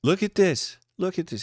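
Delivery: high, loud indignant outburst; outraged at the rude stranger; pissed. Acted. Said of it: "She's pissed".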